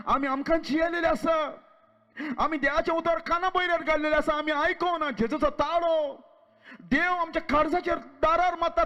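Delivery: fervent preaching, driving fast. Acted. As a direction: preach it hard to the crowd. Preacher exhorting congregation.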